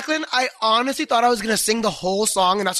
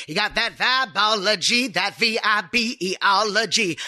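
slow, rhythmic lyric reading; performed song line. Shown as a demonstration. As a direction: spell it out slowly on the beat. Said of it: "Wait, am I saying it".

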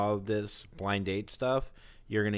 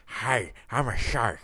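shark voice; 2 semitones lower, 3 dB louder, slower than usual. Pretend. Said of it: "sharks are like".

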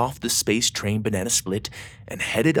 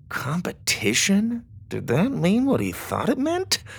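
surprised; 10 semitones higher than usual. A narrator's reading. Doug's inner thought, excited.

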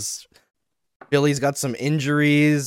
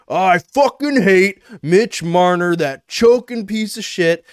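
slow, louder fan rant; hammed-up bitter fan rant; mock furious fan; 5 semitones higher, 5 dB louder, slower than usual. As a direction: spit it out like a betrayed fan. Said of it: "they're like".

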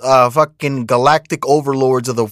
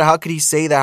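lightly voiced pearl-clutching, close to own voice; a hint of the outraged crowd; mild mock outrage; 2 semitones higher, faster than usual. Mocking outraged people.

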